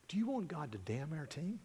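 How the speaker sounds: soft, measured question; quiet pointed question. Retold or imitated. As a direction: ask it softly, as a private word. Coach quietly questions the swearing man.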